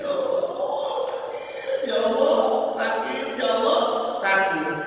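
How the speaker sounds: groaning in pain. Shown as a demonstration. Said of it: "Ngomongnya gimana?".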